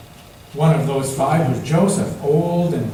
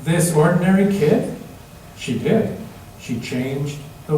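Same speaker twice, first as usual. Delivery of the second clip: put-on reading to children. A narrator's reading. Teacher reading a picture book to kids, lively storytelling. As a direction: read it out to little listeners.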